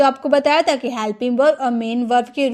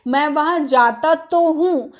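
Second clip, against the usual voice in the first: slow, weight on तो; insisting, तो stressed; emphatic sentence. Shown as a demonstration. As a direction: press the तो to insist. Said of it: "तो जोर देकर हम बोल रहे हैं ना".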